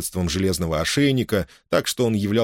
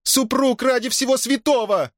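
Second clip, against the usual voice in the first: a much higher desperate woman's cry down the corridor; Margarita's cry. A narrator's reading. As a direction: call out to your husband in despair. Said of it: "крикнула Маргарита".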